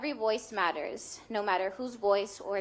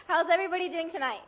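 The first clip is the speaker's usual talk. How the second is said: laughing; 7 semitones higher, 4 dB louder, faster than usual. Real, not acted. Emotional opening, laugh heard.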